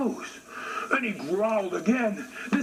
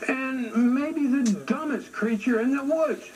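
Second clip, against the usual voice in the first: lightly voiced, higher chipmunk; cheeky chipmunk; 5 semitones higher than usual. Chipmunk mocking the bear, higher and cheeky. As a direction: tease him in a small higher voice. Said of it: "The chipmunk said".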